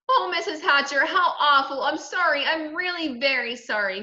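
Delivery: high, distressed outpouring; crying apology. A narrator's reading. Sheila apologizing to the boy's mother, crying. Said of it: "Sheila cried".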